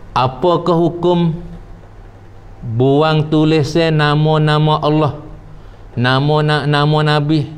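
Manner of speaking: slow, level reading voice; reading a question aloud. Real, not acted. Teacher reading out a question on religious ruling, measured reading. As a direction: read it out phrase by phrase, evenly.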